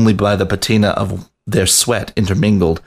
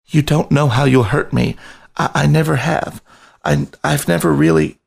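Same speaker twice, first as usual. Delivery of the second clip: higher, anxious rat voice stumbling on I; frightened pleading; 6 semitones higher than usual. A narrator's reading. Rat begging the lion to stop, anxious higher pleading. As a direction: plead nervously, tripping over the start.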